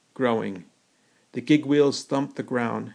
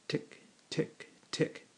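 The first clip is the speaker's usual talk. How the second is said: clock ticking; 4 semitones higher, 11 dB quieter, slower than usual. A narrator's reading. Metal man ticking.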